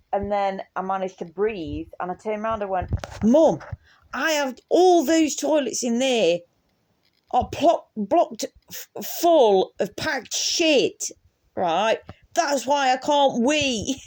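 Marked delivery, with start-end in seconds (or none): 3.2-14.0 high, slow, through helpless laughter; laughing while explaining. Retold or imitated. Telling mum about the blocked toilets, high through laughter. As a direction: squeeze it out between laughs.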